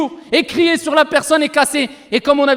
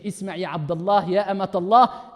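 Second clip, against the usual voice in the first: soft solemn quote; 8 semitones lower, 6 dB quieter than usual. Acted. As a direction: speak the prophet's words hushed. Quoting the prophet softly. (citation douce et lente)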